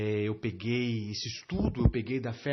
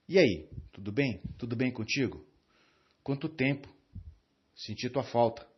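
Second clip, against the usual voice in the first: indifferent greeting; 2 semitones lower than usual. Shown as a demonstration. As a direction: greet him as if you don't care. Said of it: "transmitindo um desprezo do tipo, "Tô nem aí pra você". (cumprimento indiferente, com desprezo contido)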